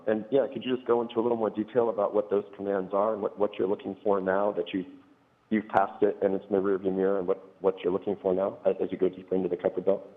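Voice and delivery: garbled phone line audio; words smeared by a bad phone connection; scrambled voice. Real, not acted. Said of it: "but the audio is garbled".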